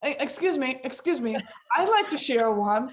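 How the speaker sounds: a hint of a shy man asking to speak; mock timid interruption. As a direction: politely cut in, eager. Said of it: "And he's like".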